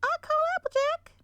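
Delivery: high, loud filly holler; bellowed. Acted. Apple Bloom claiming her sister, loud high bellow. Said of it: "bellowed Apple Bloom".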